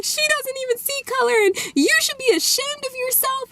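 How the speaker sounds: very high, tearful mom voice; imitated crying. Crying mom shaming the father, imitated tearful protest. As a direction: plead through mock tears, pitched right up. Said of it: "then the mom is crying".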